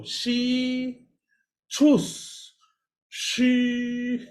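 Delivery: She, then high rounded choose, then She with lips kept rounded; three-step demo. Shown as a demonstration. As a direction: model it for students. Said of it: "three steps. Let's go".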